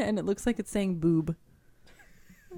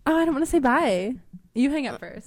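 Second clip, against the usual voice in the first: giggly late night call; 5 semitones higher, 6 dB louder than usual. Pretend. Mock phone-call goodbye.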